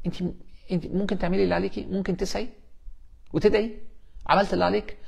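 calm a worried parent gently; طمأنة هادية. Acted. Soothes the fretting mother. (تهدئة بصوت واطي وحنين)

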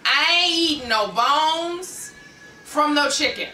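high, loud, slow, every word punched; emphatic refusal. Real, not acted. Wife refusing to eat chicken bones, slow emphatic no. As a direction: lay it down once and for all. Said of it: "I'm gonna say it like this".

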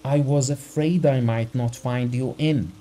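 a terrified husband begging for help; frightened urgency. Acted. Husband begs the doctor to come, frightened and pleading. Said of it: "spoke quickly in a shaking voice".

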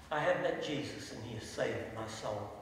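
low, soft, simple testimony; understated, quiet declaration of faith; simply stated. Retold or imitated. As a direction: quote him softly and simply. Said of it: "that's how simply he said it".

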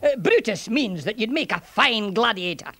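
lightly lilting Scots soldier; a Scots burr, unhurried at first; Scottish centurion, explaining. Acted. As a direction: explain helpfully in a Scottish accent.

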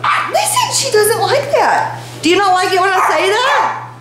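very high, cutesy pet voice; squeaky talk to a pet. Real, not acted. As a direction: coo questions at the dog, high. Baby-talking to her reacting dog.

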